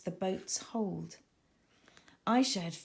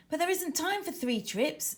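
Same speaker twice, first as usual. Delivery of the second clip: anxious objection; 8 semitones higher than usual. Acted. Aisha objects urgently.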